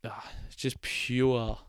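slow, breathy whisper of awe. Real, not acted. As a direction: whisper it in reverence. Savouring how good Monza is.

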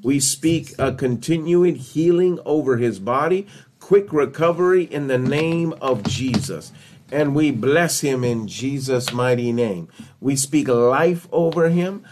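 declarative healing prayer, settling at the close; spoken prayer. Real, not acted. Preacher praying healing over Joseph, earnest prayer. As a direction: declare each blessing in measured phrases.

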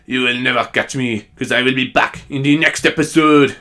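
mock French villain taunt; escaping cartoon French baddie; stereotypical French. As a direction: gloat in a hammy French accent. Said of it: "he's very stereotypical French anyway".

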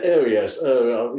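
mock upper-crust British murmur; upper-crust British accent. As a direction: put on a plummy upper-class British voice. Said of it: "the upper crusting".

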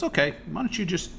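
high-pitched imitation of the boss; mock-patient boss, voice lifted. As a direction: imitate a boss simplifying the task. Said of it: "he goes".

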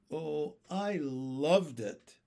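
slow, drawn-out delight; a rapt listener's slow praise. A narrator's reading. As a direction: savor the praise, stretching the words. Delighted boy praises the music.

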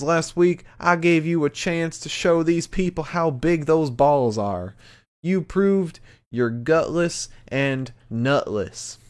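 high-pitched wrestling promo in an imitated Cameron accent; Cameron Grimes's accent. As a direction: deliver a big challenge in Cameron's accent. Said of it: "the speaker braved Cameron's and Pete's accent".

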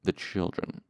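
soft sneering edge; unpleasant edge. Acted. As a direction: sneer the children. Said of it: "voice had an unpleasant edge".

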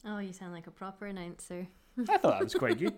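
high, slow, laughing through words; giggling as she speaks. Real, not acted. Laughing at own announcement.

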